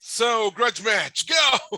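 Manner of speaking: slow, high ring call rising to a yelp on go; ringside announcer. Pretend. Referee kicks off the guests' grudge match, mock announcer. Referee opens the podcast debate.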